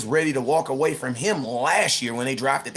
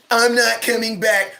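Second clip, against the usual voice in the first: mock defiant player; 5 semitones higher, 4 dB louder, slower than usual. Mocking Rodgers' ultimatum, loud.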